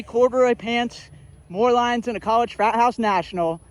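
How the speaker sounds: out of breath after running uphill; panting a little between words. Real, not acted. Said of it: "I'm out of breath from running up here".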